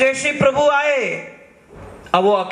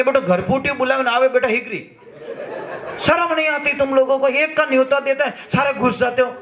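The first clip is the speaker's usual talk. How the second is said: raised, scolding the uninvited guests; angry scolding; 4 semitones higher than usual. Retold or imitated. Devotee scolds the gods for all showing up, angry. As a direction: tell them off for crowding in. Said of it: "अब इतना गुस्सा किया उसने कि".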